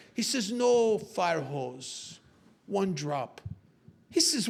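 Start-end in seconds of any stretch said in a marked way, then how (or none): 0.5-3.4 very slow, deliberate correction; drawn-out villain pronouncement; Doctor Chan. Acted. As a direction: spell out the threat slowly, in character. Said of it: "this little Doctor Chan comes in".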